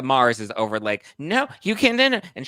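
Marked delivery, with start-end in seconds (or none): 1.2-2.2 high, loud frantic no; shrill mock refusal. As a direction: block the cops with a squeal. Woman blocking police.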